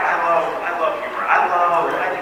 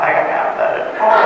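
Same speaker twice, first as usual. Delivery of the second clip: laughing. Retold or imitated. Laughing quote of himself.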